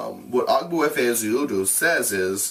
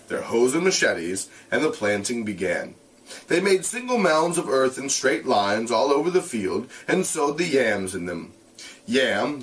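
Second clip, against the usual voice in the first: steady read-aloud voice; measured narration; story narration; 3 semitones higher than usual. A narrator's reading. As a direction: read the novel to the class. Reads novel aloud to class.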